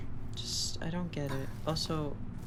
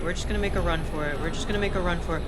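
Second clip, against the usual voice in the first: fast and loud, urgent; rushing the words out mid-escape; being chased; 5 dB louder, much faster than usual. Real, not acted. Fleeing a monster in game.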